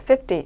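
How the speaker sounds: "fifty" said quickly, stress on the first syllable. Shown as a demonstration. Teacher contrasting fifty with fifteen for students, stress on F. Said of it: "F에 강세를 두고 빨리".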